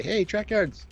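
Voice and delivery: high-pitched calling out, held back in volume; demonstrated yell. Shown as a demonstration. Host shows fans how to hail them across the room, mock yell. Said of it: "yell. Say".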